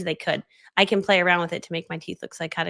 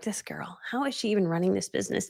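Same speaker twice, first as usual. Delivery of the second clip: mock whisper; 7 dB quieter than usual. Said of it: "and they're like".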